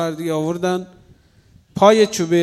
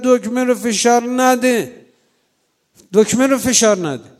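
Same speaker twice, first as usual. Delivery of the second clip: retold shout; 5 semitones higher, 4 dB louder than usual. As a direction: call out to stop the hanging. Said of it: "فریاد زد".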